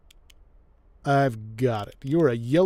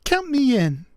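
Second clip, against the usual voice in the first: high, loud Mid-Atlantic party voice; Mid-Atlantic accent; 11 semitones higher, 7 dB louder than usual. Acted. Player tries a Mid-Atlantic accent for a character. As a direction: Count me in with a Mid-Atlantic lilt. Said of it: "Maybe more Mid-Atlantic".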